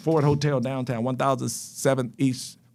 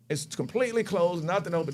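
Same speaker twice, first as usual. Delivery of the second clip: normal talking voice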